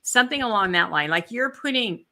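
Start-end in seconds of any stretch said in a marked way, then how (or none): 1.1-2.1 talking with the hiccups. Real, not acted. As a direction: speak through hiccups. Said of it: "I've got the hiccups".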